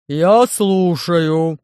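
могучий инопланетянин, говорит громче и очень медленно; весомо, с расстановкой, громко; гулкий медленный бас Громозеки. Acted. Голос Громозеки. (Громозека, громко и очень медленно)

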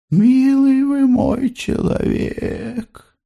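high, very slow and tender. Acted. Mother tenderly approaching Andrey, high and slow.

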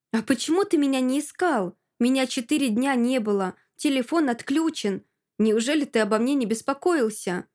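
indignant reproach; hurt reproach. Acted. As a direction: confront him, wounded. Hurt woman confronts her boyfriend.

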